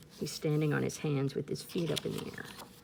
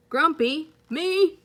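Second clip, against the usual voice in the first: higher, louder indignant protest; indignant denial; 8 semitones higher, 8 dB louder than usual. Acted. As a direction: deny it, offended and loud. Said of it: "said Jim".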